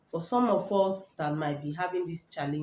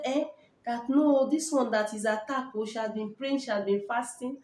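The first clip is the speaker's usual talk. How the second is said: a lightly voiced higher caller, half-protesting; imitating the lady caller; 5 semitones higher than usual. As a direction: quote the worried caller, pitched up a little. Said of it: "She said".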